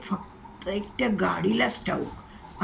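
quiet, slow half-swallowed reply; softly muttered. Acted. Amit quietly answers the angry boss, soft and slow. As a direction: mutter it softly under your breath. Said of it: "Amit हळूच पुटपुटला".

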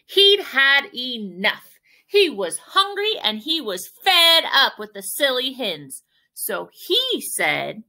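deliberate, punchy storytelling; emphatic read-aloud. A narrator's reading. Teacher telling children owl got cross, emphatic narration. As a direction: read it slowly, leaning on each phrase.

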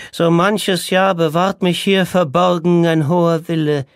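high, loud, slow declaiming cry; calling out. Acted. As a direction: proclaim it like a lament, drawn out. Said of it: "rief er". (laut und langsam rufend, hoch deklamiert)

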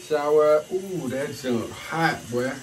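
loud, high yelp at hot water; startled ooh under the hot shower; surprised by hot water. Real, not acted.

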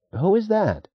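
put-on a young man asking in awe; young brakeman voice. A narrator's reading. Young brakeman asks, astonished.

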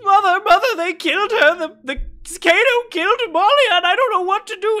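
very high, loud panicked creature voice; high, loud, panicked familiar; distraught cub. Acted. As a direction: wail it like a frantic little beast.

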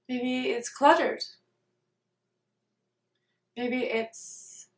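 calm meditation guide, unhurried, with long pauses between phrases; guided meditation. Real, not acted. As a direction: lead them gently through it, leaving space after each phrase.

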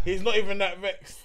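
laughing. Real, not acted. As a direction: laugh while saying it back. Repeating a mate's line, laughing.

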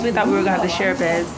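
normal talking voice

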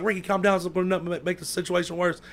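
high-pitched retold mom urging calm; lightly voiced worried mother; pleading mother.

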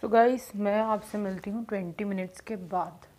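talking through a face mask; wearing a sheet mask. Real, not acted. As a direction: lips framed by mask. Seen 1: Black sheet mask covers the face while speaking; lips show through the mouth opening.

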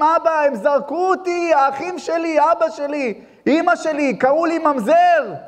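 high, impassioned imitation of a crying plea; retold tearful lament, pitched high; David HaMelech. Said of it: "היה בוכה לאבא שבשמיים".

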